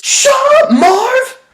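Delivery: high laughing snap at Marv; hammed-up high crook, laughing; laughing movie crook. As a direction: bark it at your partner through a laugh. Acting Harry yelling at Marv.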